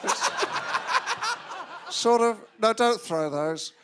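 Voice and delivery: Josh Widdicombe impression. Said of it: "Your Widdicombe impression is starting to sound like a drunk Alan Partridge".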